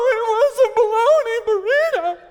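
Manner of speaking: high, loud, wailing insistence; sobbing child stubbornly insisting; mock crying child. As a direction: wail through fake tears like a frantic kid.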